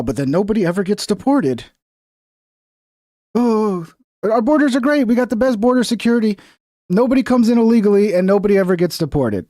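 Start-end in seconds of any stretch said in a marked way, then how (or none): 3.4-9.5 higher, mock-bright fake praise; sarcastic cheer. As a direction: sell the fantasy with obvious sarcasm. Sarcastic fantasy of perfect borders.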